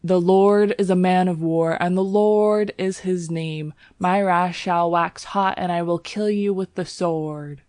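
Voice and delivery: bellowing preacher. Acted. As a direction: bellow it from the pulpit. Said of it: "when he bellowed".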